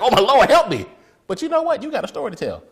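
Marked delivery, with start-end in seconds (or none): 0.0-0.8 high, loud comic cry for help; hammed-up drowning yelp; mock panic. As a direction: plead in laughing mock desperation. Imitating drowning man crying for help.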